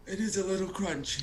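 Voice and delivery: whispered admission; reluctant confession. Acted. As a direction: admit it under your breath, reluctantly. Reluctant confession about the food.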